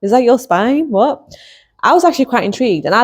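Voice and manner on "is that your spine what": amused disbelief. Retold or imitated. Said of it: "It's like".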